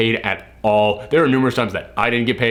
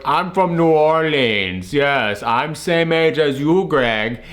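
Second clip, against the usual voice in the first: slow, lightly imitated odd foreign accent; Tommy Wiseau; much slower than usual. Film star claiming New Orleans roots, imitated odd accent. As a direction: stretch the words in a mock mystery accent. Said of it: "what's that accent?".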